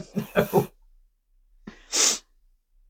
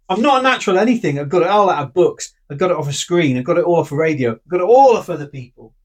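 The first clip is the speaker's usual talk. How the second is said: a hint of a brash rocker, fast and a bit louder at the start; quick, lightly voiced boast; half-hearted rock star voice; 2 semitones higher, 4 dB louder, faster than usual. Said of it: "that impression I don't know".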